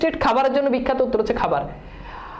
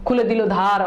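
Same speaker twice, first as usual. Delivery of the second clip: reading aloud; 3 semitones lower, slower than usual. Shown as a demonstration. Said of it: "এখানে বলছে".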